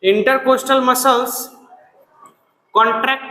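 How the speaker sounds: slow, drawn-out repeat; slow dictation. Shown as a demonstration. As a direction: say it slowly again for the class. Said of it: "बोलो". (धीमी आवाज़ में दोहराना)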